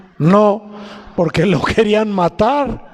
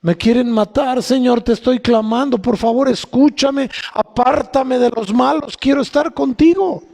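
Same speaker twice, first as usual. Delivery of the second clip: pleading, building higher towards the end; David's urgent plea; 4 semitones higher than usual. Acted. King David begging God for protection, pleading. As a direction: cry out in earnest prayer, voice climbing. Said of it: "¿Qué le está diciendo el rey David a Dios".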